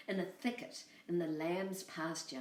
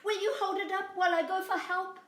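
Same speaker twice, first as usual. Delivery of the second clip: high bleating lamb voice, louder; 12 semitones higher, 5 dB louder, faster than usual. Acted. Lamb tricking the coyote, high bleating voice. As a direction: bleat the words like a little lamb. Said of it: "said Boragita".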